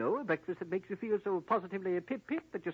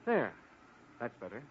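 English accent sliding step by step into a much lower voice; voice change; 7 semitones lower, 5 dB quieter than usual. Shown as a demonstration. Agent showing the captive girl his voice change, dropping lower. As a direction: let the fake voice sink down to the real one. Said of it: "now listen to my voice change".

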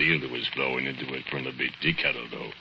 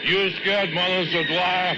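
much higher mocking question; retold taunt; 14 semitones higher than usual. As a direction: taunt him up high. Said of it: "You hear yourself say".

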